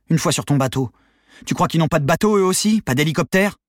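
high, loud incredulous questions; exasperated challenge. A narrator's reading. Accomplice disputing leader's escape plan, exasperated challenge. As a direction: throw the objections back at him.

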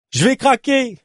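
high-pitched cry at breaking point; desperate outburst. Acted. Exhausted cyclist to her companion in the desert, desperate cry. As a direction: cry out that you are giving up.

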